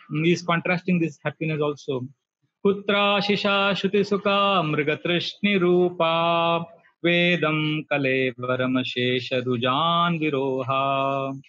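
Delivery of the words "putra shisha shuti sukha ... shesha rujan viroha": slow, measured Sanskrit verse, chanted evenly; slow verse recitation. Acted. Preacher chanting a Bhagavatam verse to the congregation, slow and measured. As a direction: intone the scripture verse slowly before explaining it.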